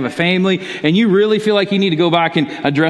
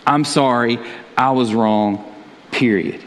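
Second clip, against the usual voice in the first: firm sincere apology; 5 semitones lower, slower than usual. Shown as a demonstration. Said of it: "put a period there".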